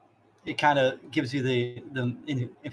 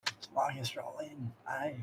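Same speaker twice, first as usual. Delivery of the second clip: soft, lightly voiced New Zealand accent; a hint of a New Zealand accent, said softly; 10 dB quieter than usual. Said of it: "New Zealand voice".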